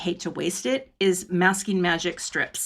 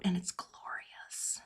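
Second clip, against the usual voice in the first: very soft, slow, drawn-out whisper; absent-minded whisper; 17 dB quieter, much slower than usual. Real, not acted. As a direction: whisper it to yourself while concentrating. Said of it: "Sorry, I'm whispering".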